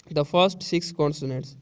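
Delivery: very slow, each word spaced; slow dictation read. Shown as a demonstration. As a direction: read it slowly for the class. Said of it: "teacher reads text slowly again".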